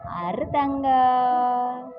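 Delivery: slow, tender hushing coo; slow soothing lullaby tone to a crying infant. Real, not acted. Mother soothing crying baby.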